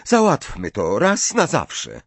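slow, high-pitched challenge; defiant. A narrator's reading. Ginny defies Ron over whom she dates, challenging. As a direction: stand up to your brother, drawing the words out. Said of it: "patrząc wyzywająco na Rona".

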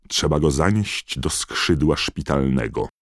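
loud, carrying command; booming voice. Acted. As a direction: call the order over the crowd. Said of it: "donośny głos Korneliusza Knota".

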